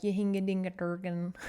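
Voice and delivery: sing-song Scandinavian gibberish accent; mock Scandinavian accent. Shown as a demonstration. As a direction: babble in a fake Scandinavian accent. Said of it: "I don't know what accent to do".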